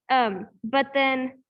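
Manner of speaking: talking around a hair in the mouth; slowed, with something caught in the mouth. Real, not acted. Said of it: "I have a hair in my mouth".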